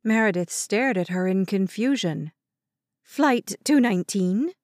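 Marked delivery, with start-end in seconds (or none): 3.0-4.5 pressing. Acted. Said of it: "Grandma Lucy pressed".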